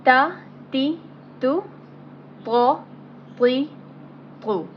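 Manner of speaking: heavy emphatic Arabic ta, ti, tu; thick tone. Shown as a demonstration. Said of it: "in a thick tone".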